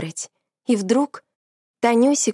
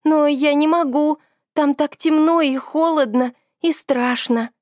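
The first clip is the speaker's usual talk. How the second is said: scared pleading; 6 semitones higher than usual. Acted. Scared friend pleads against going.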